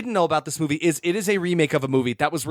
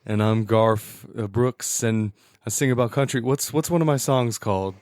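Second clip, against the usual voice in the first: country singer impression; 6 semitones lower than usual. Mock country star greeting podcast listeners, low lightly put-on voice. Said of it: "my best Garth Brooks impression".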